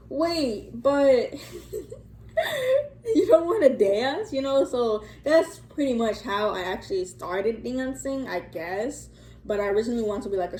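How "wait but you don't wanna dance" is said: higher-pitched retold panic breaking into laughter; mock freaking out. Friend steps in as he turns her away, mock freaking out. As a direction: laughingly imitate a friend's flustered plea. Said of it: "freaking out".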